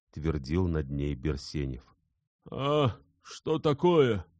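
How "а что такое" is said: slow, much higher startled sick voice; a feverish man calling out slowly; sick man waking. A narrator's reading. Insarov wakes in fever, slow and startled. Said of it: "раздался вдруг голос Инсарова".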